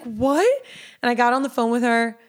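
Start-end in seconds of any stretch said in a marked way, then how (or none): 0.0-0.4 retold stunned question, pitched up; higher, rising disbelief; shocked. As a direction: imitate a friend in shock. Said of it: "She was in shock".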